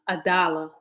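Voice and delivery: whispered "A dollar" in disbelief. Real, not acted. Vlogger whispering to chat about the ex's dollar. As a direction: breathe "A dollar" with no voice.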